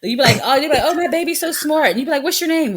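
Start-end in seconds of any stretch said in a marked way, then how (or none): 0.9-1.9 proud parent. Retold or imitated. 2.2-2.8 put-on sweet question to a kid. Mimicking adult asking child.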